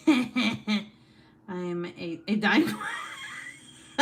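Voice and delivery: high, slow, wheezing through laughter; laughing. Real, not acted. Streamer reading a comment while laughing, high wheezy laughing read.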